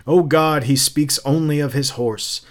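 good-humored cry. Retold or imitated. Captain retelling his retort to Montag, good-humored cry. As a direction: toss it out as a light-hearted cry. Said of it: "cried in good humor".

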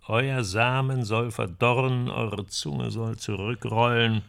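measured curse, slowing towards the end; Old Testament curse. Acted. Man quoting the condemned man's last curse, Old Testament style. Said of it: "Richtig schön alttestamentarisch".

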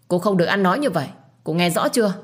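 fast, stern rebuke; angry scolding. Acted. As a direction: put her in her place. Husband scolds wife. (mắng nhanh, nghiêm khắc)

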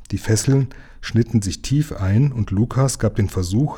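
usual speaking voice

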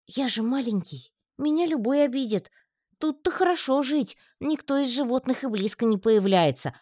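выше, жалобный тонкий голосок; пожалуйся тонко и боязливо; испуганный паучок. A narrator's reading. Паучок боится выйти из рощи. (паучок объясняет страх: жалобный тонкий голосок)

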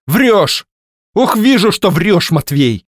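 loud, high accusing cry; wife crying out that her husband lies; angry exclamation. Acted. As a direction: shout him down as a liar. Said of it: "воскликнула она".

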